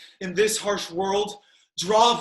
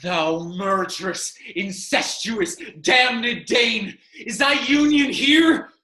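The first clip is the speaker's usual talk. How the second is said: slow building fury; 3 semitones higher than usual. Acted. Hamlet forcing the poison on Claudius.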